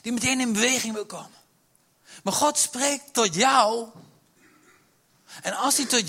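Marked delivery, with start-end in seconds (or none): 2.2-3.9 slow emphasis. Real, not acted. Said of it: "slowed emphasis".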